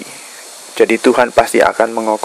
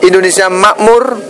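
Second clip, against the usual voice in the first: raised, higher-pitched rallying oratory; stirring patriotic speech; 5 semitones higher than usual. Real, not acted. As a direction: call the nation to rise, phrase by phrase.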